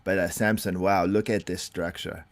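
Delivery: halting coach impersonation with put-on accent; half-hearted imitation of a foreign bodybuilding coach; Milos. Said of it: "doing a Milos impersonation".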